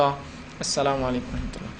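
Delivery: quiet, unhurried prayer-ending salaam; salam drawn out slowly. Shown as a demonstration. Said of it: "یہ اس کا بہرحال طریقہ ہے".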